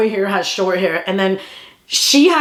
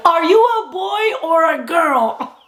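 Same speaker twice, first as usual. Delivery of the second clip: put-on kid's voice; 8 semitones higher, slower than usual. Kid's blunt question.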